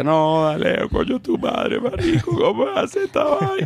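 very high, slow, distraught, near tears, tearful dismay. Acting out what they would tell a friend whose dog died: imitating tearful dismay. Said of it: "Así en ese tono".

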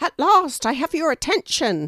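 very high, squawky, sparrow-like bird voice. Reading a story aloud, voicing the sparrow hovering overhead: squawking sparrow voice. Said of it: "the sparrow squawks".

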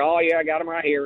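put-on deep East Texas drawl. Retelling what the coach said when asked for his rings: imitating a deep East Texas drawl. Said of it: "he's got that real deep East Texas drawl".

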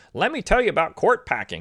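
very annoying, high-pitched voice swooping upward. Quoting a line from the debate: annoying Kamala Harris voice. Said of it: "in her very annoying voice".

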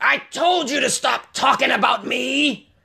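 very high-pitched, slow, rough, creaky growl. Retelling how a stranger in the car window growled: imitating a man growling. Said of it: "he growls at me".

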